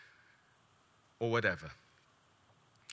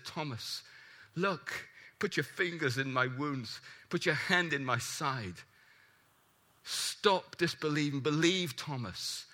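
softer, tender coaxing; gentle Jesus; 2 semitones lower, 3 dB quieter than usual. Acted. Jesus gently coaxing doubting Thomas, soft and tender. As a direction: quietly urge a doubting friend to believe.

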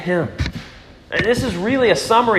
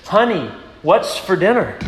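calling a little louder to his wife from right behind her; slightly louder repeated call; a bit louder; 2 semitones higher than usual. Retold or imitated. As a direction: raise the voice a notch on "Honey, what's for dinner?". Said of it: "in a bit of a louder voice".

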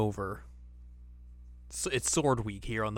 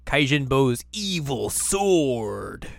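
dramatic announcer; 3 semitones higher, 5 dB louder, much slower than usual. Pretend. Dramatic episode title.

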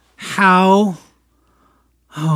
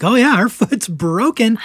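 higher, louder, slow and laughing; laughing blurt; 7 semitones higher, 6 dB louder than usual. Retold or imitated. Husband telling the neighbors about the foot, laughing.

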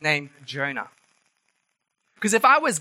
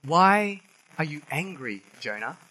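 gentle question; 3 semitones lower than usual. Retold or imitated. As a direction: ask him tenderly like a patient father. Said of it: "asks Jonah".

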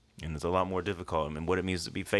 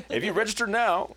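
high, excited pitchman; mock infomercial; 4 dB louder than usual. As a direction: push the offer like a cheesy TV ad. Jokingly playing an infomercial announcer.

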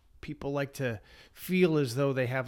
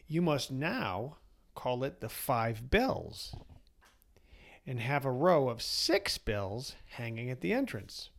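put-on wise old sage; slower than usual. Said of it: "said the sage".

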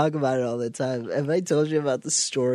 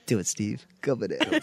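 a touch lower and softer, egging him on; lightly voiced Roger; 4 semitones lower, 4 dB quieter than usual. Roger from American Dad urging Steve on, low and sly. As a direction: coax him quietly to go bananas. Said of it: "Roger's like".

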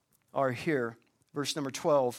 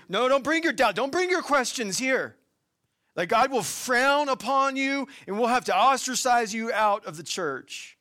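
higher, louder mock scolding of doubters; mock scolding church; 7 semitones higher, 6 dB louder than usual. Preacher mocks how the church shuns people who doubt, hammed-up scolding. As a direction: ham up the disapproving church voice. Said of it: "the church has viewed people who have doubts".

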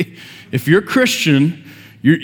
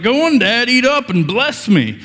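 a hint of a scheming son urging Dad to eat; sly son coaxing; 7 semitones higher than usual. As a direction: sweet-talk Dad into eating, lightly voiced. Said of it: "He's like".

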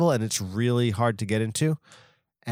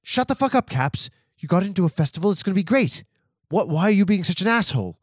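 higher, louder mock-scolding friend; Spencer scolding; 7 semitones higher, 4 dB louder than usual. Spencer tells Caps to quit whining about festivals, exasperated scolding. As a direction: talk him down like an exasperated buddy. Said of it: "Spencer Fulton Baird to come out and be like".

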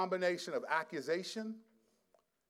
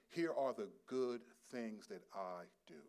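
whisper; 4 semitones lower, 7 dB quieter than usual. Retold or imitated. Preacher voicing self-justifying people.

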